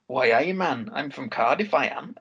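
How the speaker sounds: mock Cardiff accent. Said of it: "the only way I could get into it was by going".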